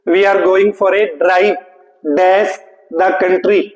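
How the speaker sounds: very slow, word by word; slow sentence read. Shown as a demonstration. Reading sentence slowly. (वाक्य बहुत धीरे पढ़ना)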